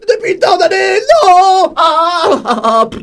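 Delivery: high, loud wailing cry of despair. Acted. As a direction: wail in total despair. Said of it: "c'est le cri de désespoir de Cacatosaure".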